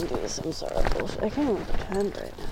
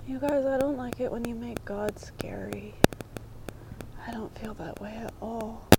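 softer, hushed and earnest; soft and sincere; 5 dB quieter than usual. Real, not acted. Telling viewers how she sees God, soft and sincere. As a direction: confide it gently, half whispered.

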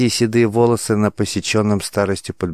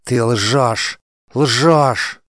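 higher and louder, rising to a near-hysterical cry; queen losing her mind, screaming at the lying warrior; frantic accusation; 5 semitones higher, 4 dB louder, much slower than usual. A narrator's reading. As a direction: hurl ЛЖЁШЬ at him, higher each time. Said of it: "Мандана была на грани помешательства".

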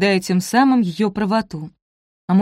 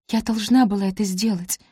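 usual speaking voice

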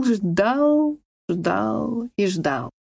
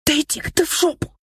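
higher, sharp angry retort; angry outburst; 7 semitones higher, faster than usual. A narrator's reading. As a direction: snap back at him.

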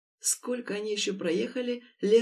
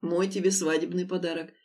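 ordinary delivery

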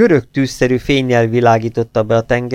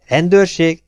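high, louder one-word query; surprised, pitched well up; astonished question; 8 semitones higher, 5 dB louder than usual. A narrator's reading. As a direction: echo it in amazement. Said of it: "csodálkozott a háromkezű Connor".

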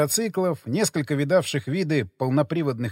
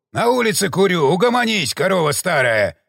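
roaring; 4 dB louder than usual. Acted. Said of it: "проревел он".

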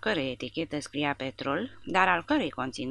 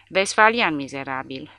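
shouted insult; 5 dB louder than usual. Acted. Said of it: "urlă Stege".

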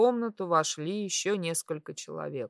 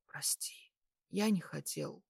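whispered apology; 7 dB quieter than usual. A narrator's reading. Patient apologising to crying girl, whispered. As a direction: apologise barely above a whisper. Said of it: "прошептал я".

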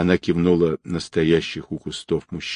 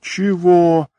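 Чего flung out much higher and louder; startled outraged what; 11 semitones higher, 4 dB louder than usual. A narrator's reading. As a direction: jump up shouting Чего. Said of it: "вскочил кавказец".

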